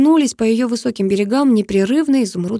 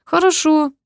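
smirk; 8 semitones higher, slower than usual. A narrator's reading. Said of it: "хмыкнул я".

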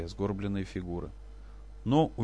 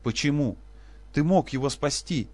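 high, louder accusation; grieving mother accusing the father; accusing cry; 5 semitones higher, 3 dB louder than usual. Acted. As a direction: throw the blame at him. Accusing husband of son's death.

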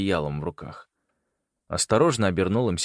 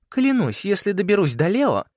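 much higher, loud furious threat; angry threat; 12 semitones higher, 5 dB louder than usual. A narrator's reading. Winter threatening Leo, loud and high. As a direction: swear revenge hotly.

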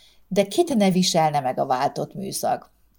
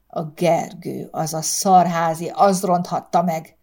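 hissed. Acted. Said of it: "sziszegte a férfi".

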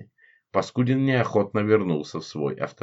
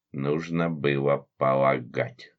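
irritated; 6 semitones lower, much slower than usual. A narrator's reading. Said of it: "раздражённо произнесла".

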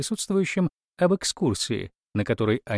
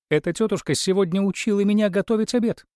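exasperated complaint; 10 semitones higher, 3 dB louder, faster than usual. A narrator's reading. Mother complains about aunt.

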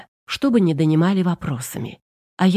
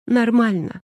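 sniffling; 4 semitones higher than usual. Acted. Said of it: "всхлипнула Наташа".

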